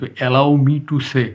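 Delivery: very slow, word-by-word asking leave; polite slow request. Shown as a demonstration. Teacher models asking to hold a baby, slow and polite. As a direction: ask permission slowly so learners catch each word. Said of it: "permission চেয়ে নিত".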